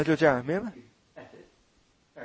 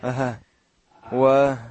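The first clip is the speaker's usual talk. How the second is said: lower, halting, slow stammering; a sinner who can't meet their eyes; guilty stammer; 4 semitones lower, slower than usual. Shown as a demonstration. Preacher acting out a guilty sinner among saints, stammering shyly. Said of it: "那我就结结巴巴的".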